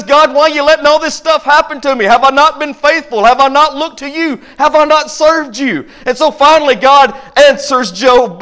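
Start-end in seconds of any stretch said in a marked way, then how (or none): 0.0-5.9 pleading Job; voicing Job. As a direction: complain to God as Job. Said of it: "And he says".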